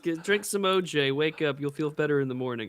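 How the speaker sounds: mock caregiver. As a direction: coo over him like a fussing parent. Voices a fussy caregiver.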